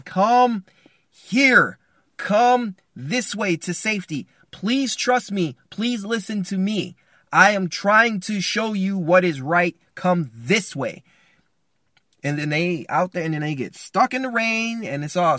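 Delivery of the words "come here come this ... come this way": slow, raised, pleading call; urgent calling out. Acted. Husband in the cave calls family to safety, slow pleading. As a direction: call slowly and firmly, stretching each word. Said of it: "in that cave, saying".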